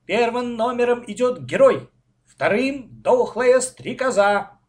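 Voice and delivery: loud, high, stretched announcer call; child playing regatta commentator; race commentary. A narrator's reading. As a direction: call out the running order. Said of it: "продолжал вести репортаж с регаты".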